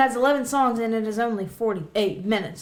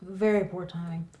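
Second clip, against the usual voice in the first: chewing ice while talking; ice in mouth; 2 semitones lower, 5 dB quieter than usual. Real, not acted. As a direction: talk through a mouthful of ice. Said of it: "Sorry, I'm chewing ice".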